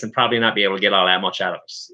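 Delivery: rapid Newfie dialect; hurried Newfoundland accent. Shown as a demonstration. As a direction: rattle it off fast in a Newfoundland brogue. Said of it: "listen to me talk like this".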